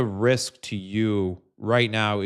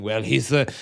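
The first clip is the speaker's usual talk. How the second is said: higher, pompous mock voice of a Trump supporter; 4 semitones higher than usual. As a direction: ham up a smug supporter defending capitalism. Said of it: "sitting here thinking".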